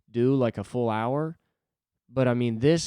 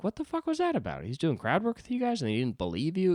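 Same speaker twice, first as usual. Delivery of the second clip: outraged crowd rant; 9 semitones higher than usual. Retold or imitated. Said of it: "just being like".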